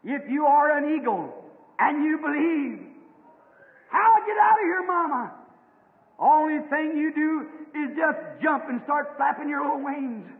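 loud preaching cry; mother eagle urging. Acted. Mother eagle urges her son to jump, loud preaching. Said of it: "and she said".

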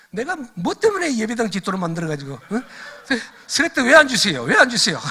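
high, shouted demand, re-enacted; loud protesting prayer. Preacher re-enacting prayer on the roof for slate money, shouted mock protest. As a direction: cry out an indignant mock complaint to heaven. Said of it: "이러면서 막 기도를 하고 있는데".

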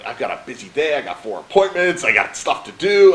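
re-enacted exasperation, rising in pitch and volume; mock-frustrated protest. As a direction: build through the list like a harried patient. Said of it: "I'm all frustrated".

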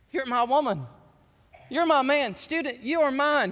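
punchy short phrases, proclaimed; voicing God's affirmation. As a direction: claim each listener firmly, as God. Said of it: "God says".

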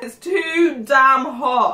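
slow, drawn out with a burning mouth; mouth burning from spicy food. Real, not acted. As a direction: drag out each word in pain. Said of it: "my mouth is still burning".

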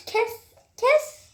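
sharp rising shout of stop. Real, not acted. Partnerine bağırarak susturma. (bağırarak kes)

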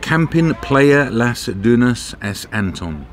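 slow, anglicised attempt at "Camping Playa Las Dunas es Anton"; tentative foreign-name pronunciation. Real, not acted. Vlogger tells viewers the campsite's name, "Camping Playa Las Dunas es Anton" carefully attempted. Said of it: "It's not pronounced correctly".

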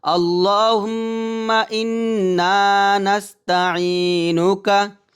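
drawn-out Quranic-style recitation, slow. Shown as a demonstration. Teacher leads students in reciting the dua slowly. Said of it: "আমার সাথে বললেন".

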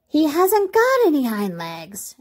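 high, drawn-out rabbit call; mocking storybook call. A narrator's reading. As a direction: call it out slowly in a high character voice. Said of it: "he called out".

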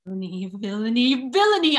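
rising outrage. Acted. Emilia realises the plot.

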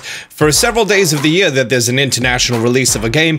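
put-on Australian accent; jokey fake Australian accent. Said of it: "You may be asking about my strange Australian accent".

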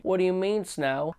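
light imitation of a Southern country twang. Reviewer mocking the actress's Southern twang accent. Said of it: "super southern country twang accent".

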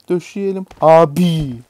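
loud, slow, stretched-out shout; drawn-out mock shout. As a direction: drag out "Döşeyelim abi" loudly. Repeats the joke louder. (yüksek sesle, uzatarak)

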